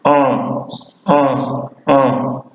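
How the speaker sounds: en said softly through the nose; nasal vowel en. Shown as a demonstration. Teacher showing his class the nasal Wolof vowel en, softly. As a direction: let the en ring nasal and soft. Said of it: "la voyelle nasale".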